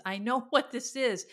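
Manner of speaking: half-laughing as it dawns on her; awed realization. Retold or imitated. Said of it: "I said it just like that".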